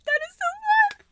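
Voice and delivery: very high excited squeak; high squeal. Real, not acted. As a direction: squeal with pure delight. Squeal at gift.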